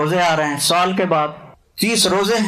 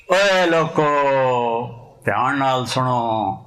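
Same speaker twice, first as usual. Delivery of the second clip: mock heavenly voice; slower than usual. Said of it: "آواز آئی".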